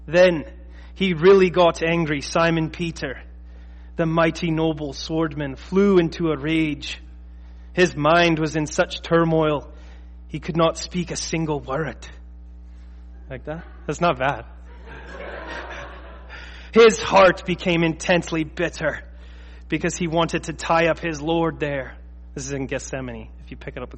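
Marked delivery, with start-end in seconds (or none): 0.1-12.1 put-on slow, dramatic reading with a light Scottish accent; attempted Scottish accent. Preacher reading old gospel retelling to congregation, attempted Scottish accent. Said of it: "read it in a Scottish accent". 16.7-22.0 put-on storyteller's amateur Scottish accent; attempted Scottish accent. Preacher resuming the Gethsemane tale, attempted Scottish accent. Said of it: "read it in a Scottish accent".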